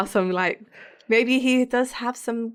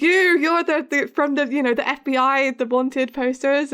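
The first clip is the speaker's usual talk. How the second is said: higher, halting imitation of shock; mock startled recognition; 4 semitones higher, 3 dB louder than usual. Woman recognising the men from wanted posters, mock startled. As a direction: stumble over the words as if placing a face.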